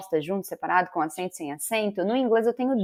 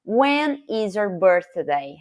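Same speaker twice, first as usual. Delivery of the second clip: slow example; 3 dB louder, much slower than usual. Shown as a demonstration. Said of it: "Example number one".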